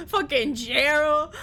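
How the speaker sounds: laughing the name out slowly. Real, not acted. Streamer cracking up over the dead man Gerald.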